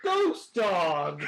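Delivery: loud, slow mock of his reading; hammed-up loud imitation; mocking impression. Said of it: "Now this man just was like".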